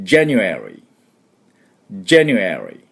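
January said clearly for students to repeat; slow clear January to copy; model for repeating. Shown as a demonstration. Teacher leading students to repeat after her, clear model. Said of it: "私の後について発音いきましょう".

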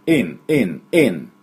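"in" sounded at the back of the throat. Shown as a demonstration. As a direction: repeat "in" as short isolated English syllables. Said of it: "喉の奥で鳴らしてください".

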